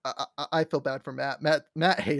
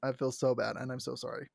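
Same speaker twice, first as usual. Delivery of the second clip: lower, softer sorry mumble; mock sad Grog; 6 semitones lower, 7 dB quieter, faster than usual. Grog apologizing to Scanlan, soft sad. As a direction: sound like a sorry giant. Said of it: "he's like".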